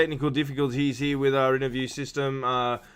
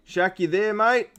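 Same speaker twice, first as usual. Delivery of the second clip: rising call, higher on mate; 6 semitones higher, slower than usual. Real, not acted. Host tries again to reach Shaq, high calling voice. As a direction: call out once more, hoping he answers.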